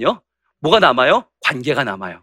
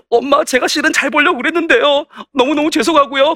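high, mock-tearful child pleading with mother; 6 semitones higher than usual. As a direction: put on a whiny, tearful apology. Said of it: "눈물 작전도 나오는 거죠". (엄마에게 울먹이며 사정하는 아이 흉내)

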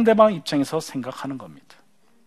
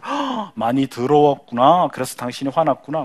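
empathetic husband; 4 semitones lower than usual. Acted. 화난 아내를 공감하며 달래는 남편, 느리고 부드럽게. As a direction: soothe an upset wife, taking it slowly.

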